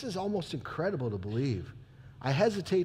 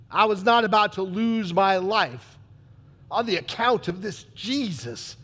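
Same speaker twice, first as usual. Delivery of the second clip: loud, firm refusal; defiant declaration; 4 semitones higher, 5 dB louder than usual. Acted. Pilate refusing to die for Jesus, loud and firm. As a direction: plant your feet and refuse.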